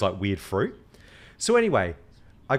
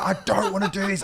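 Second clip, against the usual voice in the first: whiny complaint; 8 semitones higher than usual. Retold or imitated. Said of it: "I'm, like, getting so mad at her".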